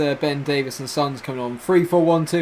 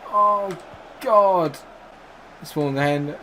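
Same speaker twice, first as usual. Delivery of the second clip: ordinary talk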